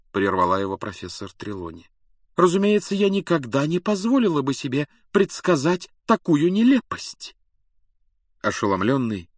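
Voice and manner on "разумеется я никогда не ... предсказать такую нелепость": high, breezy and dismissive; high airy seer voice. A narrator's reading. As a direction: wave him off like a dotty prophetess. Trelawney indignant denial.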